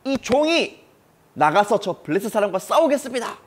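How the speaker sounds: high, loud, fearless offer to the king; bold boy's reply. Acted. Young David boldly volunteering before King Saul, fearless and loud. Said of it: "당돌하게 이렇게 말해요".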